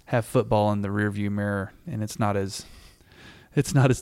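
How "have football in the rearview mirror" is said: slips into a West Texas twang; drawled West Texas accent on mirror. Real, not acted. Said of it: "a really good, like, West Texas accent that came out".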